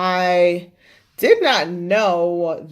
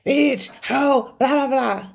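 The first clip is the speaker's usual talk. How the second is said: mock insults; 6 semitones higher, slower than usual. Trading insults in retold quarrel.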